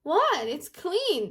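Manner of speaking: high-pitched puzzled reaction; mock surprise. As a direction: act out a sister taken aback. Sister finds kitchen unexpectedly clean.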